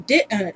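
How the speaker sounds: didn't with a catch replacing the middle sound; didn't said as di-unt with a stop; glottal stop. Shown as a demonstration. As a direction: cut didn't in two at the throat. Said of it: "That stop that you heard in the vowel".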